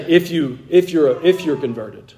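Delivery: "if" leaned on as a doubtful condition; stress on if. Shown as a demonstration. Preacher rejecting a conditional reading, stressing "if". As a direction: hang the doubt on the word "if". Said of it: "He doesn't say ... No, he just says".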